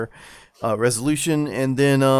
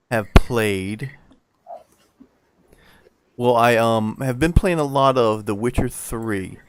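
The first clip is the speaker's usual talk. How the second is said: popping p sounds; 3 dB louder, slower than usual. Real, not acted. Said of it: "You're popping. Your peas are popping".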